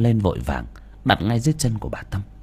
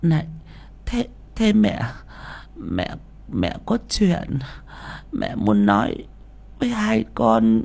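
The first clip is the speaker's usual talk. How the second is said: honest answer; 5 dB quieter than usual. Acted. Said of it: "thật thà đáp".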